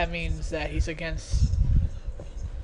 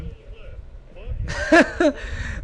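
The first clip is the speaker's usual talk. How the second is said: Tom Anderson laugh; 5 semitones higher than usual. Retold or imitated. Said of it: "Tom Anderson from Beavis and Butthead".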